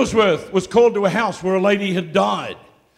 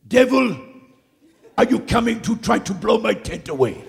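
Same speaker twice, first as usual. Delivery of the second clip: challenging the devil; 3 semitones higher than usual. Retold or imitated. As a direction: confront the storm head-on. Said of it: "and he said".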